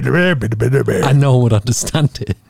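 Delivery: imitating a thick Scottish accent, slow; mock the Scottish friend's speech. But he would just say.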